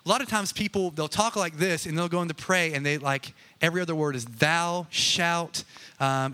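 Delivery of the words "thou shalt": lightly hammed-up pious prayer; mock prayer voice. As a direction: put on a slightly stilted praying voice. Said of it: "what happened to his voice".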